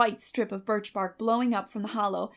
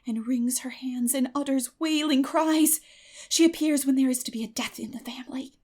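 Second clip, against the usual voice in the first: spooky whisper; 5 semitones higher, 4 dB louder than usual. A narrator's reading. Anne spooking Marilla with the white lady, whispered. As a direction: tell it like a campfire tale.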